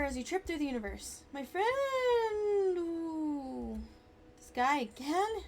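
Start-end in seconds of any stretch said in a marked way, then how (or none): 1.3-5.4 excited shout. Acted. Ghost appears in hallucination.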